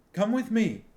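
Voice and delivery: high, loud command. A narrator's reading. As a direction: give the order, sharp and loud. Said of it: "Sinedra commanded them".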